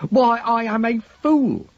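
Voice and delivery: a pleased, drawn-out realization; delighted surprise. A narrator's reading. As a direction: exclaim it, amused at your own slip. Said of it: "in what appeared to be delighted surprise".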